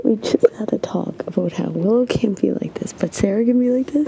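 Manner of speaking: loud pleading. Real, not acted. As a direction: plead with her loudly. Pleading with crying friend.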